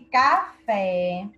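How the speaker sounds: "café" with the final "fé" drawn out; stress on last syllable. Shown as a demonstration. Teacher showing pupils the strongest syllable, final stress on "café". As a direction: lean on the "fé" in "café", slowly. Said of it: "a sílaba mais forte é fé".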